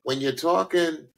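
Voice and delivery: light New York borough accent. Shown as a demonstration. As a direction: talk with a touch of New York. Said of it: "as I'm doing right now".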